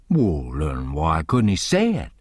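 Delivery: slow, low objection; stubborn Jim. Acted. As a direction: dig in your heels, slowly.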